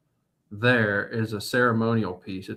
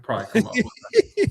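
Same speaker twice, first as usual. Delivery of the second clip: hint of an Australian accent; 11 semitones higher than usual. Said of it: "Australian accent".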